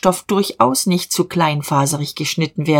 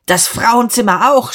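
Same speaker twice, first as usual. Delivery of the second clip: high, raised, angry command; shout; 6 semitones higher, 4 dB louder than usual. A narrator's reading. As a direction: shout the order at the culprit. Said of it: "schrie Diederich".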